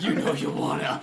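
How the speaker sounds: hushed, teasing whisper; playful whispered urging; mock coaxing whisper. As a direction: whisper it like a creepy coax. Mock coaxing after the shouting.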